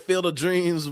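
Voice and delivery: a hint of stress on Dreams. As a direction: lean on the word Dreams. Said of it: "with the emphasis on dreams".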